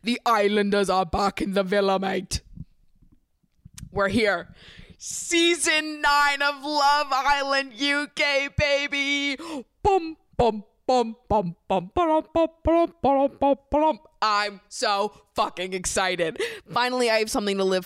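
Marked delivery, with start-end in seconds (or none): 0.0-4.5 put-on sing-song British accent. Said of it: "I can't say it any other way". 5.0-9.4 hyped announcement. Acted. Host announcing the new season, hyped and high. 9.8-14.0 loud high vocal jingle beats; beat-box the theme tune; hummed jingle. Acted. Host mimicking the show's theme, loud sung beats.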